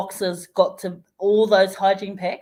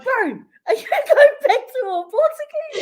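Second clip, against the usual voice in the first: high, louder question broken by laughter; laughing question; 5 dB louder, faster than usual. Retold or imitated. Retelling the boys asking the driver, laughing. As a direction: giggle through the question. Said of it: "they walk over and they're like".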